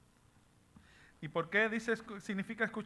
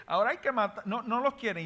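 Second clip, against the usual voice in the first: bitter laugh through the words, higher and quick; 5 semitones higher, 5 dB louder than usual. Real, not acted. Preacher laughing at how the world treats children, disbelieving laugh. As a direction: laugh it out in disbelief, a little faster.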